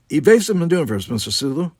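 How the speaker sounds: high, loud order; captain's command. A narrator's reading. Kirk ordering his helmsman to evade, commanding. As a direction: call out an order across the bridge.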